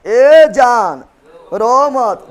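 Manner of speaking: loud call-out. Shown as a demonstration. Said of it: "mnemonic called out loudly".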